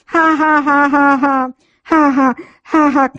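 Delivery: rolling bursts of real laughter. Real, not acted. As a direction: let the laughs spill out one after another. Holy laughter continuing.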